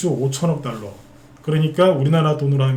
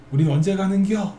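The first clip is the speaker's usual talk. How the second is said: put-on a raised, teasing Chungcheong accent; Chungcheong dialect; 5 semitones higher than usual. A host mimicking waiting shareholders in a higher Chungcheong accent. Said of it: "충청도 사투리 은근히".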